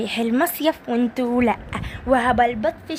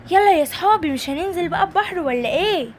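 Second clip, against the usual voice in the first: eager toy calling friends; 5 semitones higher than usual. Acted. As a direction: call them to jump into the sea. Simba calls friends to sea. (نداء عالٍ للأصحاب)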